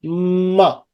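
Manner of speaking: drawn-out M at the start of "ma"; nasal M sound. Shown as a demonstration. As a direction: hum the M, then open to "ma". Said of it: "যেমন এম এর সাউন্ডটা".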